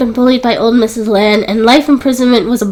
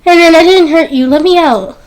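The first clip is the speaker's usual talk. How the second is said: begging; 6 semitones higher, 3 dB louder than usual. A narrator's reading. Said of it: "She begged".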